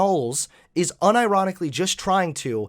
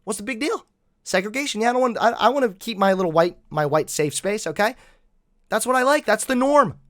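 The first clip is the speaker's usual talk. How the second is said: lightly put-on whiny opponent, pitched higher; mock his stubborn excuses in a higher voice; hammed-up defensive objection; mocking imitation; 5 semitones higher than usual. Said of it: "the norm he was born into then was".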